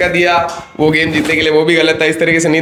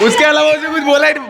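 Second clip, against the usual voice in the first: excited exclaim; 10 semitones higher than usual. Real, not acted. Host exclaims about goat roast.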